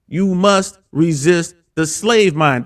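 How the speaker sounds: slow, deliberate slogan delivery; host closes by repeating the slogan from Andrew Tate, slow and weighty; quoting Andrew Tate again. Retold or imitated. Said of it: "shout out to Andrew Tate".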